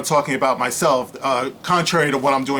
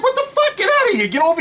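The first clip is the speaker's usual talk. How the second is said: pitched way up in disbelief, half joking; outraged squeak; faster than usual. Real, not acted. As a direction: squeal what the fuck in mock outrage. Outraged reaction.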